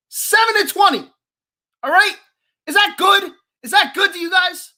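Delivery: seven and twenty, furious and incredulous; indignant outburst. Real, not acted. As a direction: shout the stat at them in disbelief. Angry rant at listeners.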